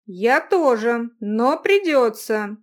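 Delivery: grim insistence. Acted. He insists slowly.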